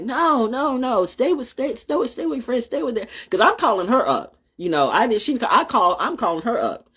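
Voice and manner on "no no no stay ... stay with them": mom insisting. Retold or imitated. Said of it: "It's like".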